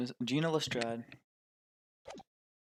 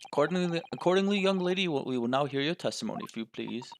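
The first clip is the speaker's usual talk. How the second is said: lightly voiced formal judge; a hint of a judge, the put-on voice fading toward the end; slipping judge voice. Judge calling the young witness to testify, formal voice slipping. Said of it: "Losing the voice".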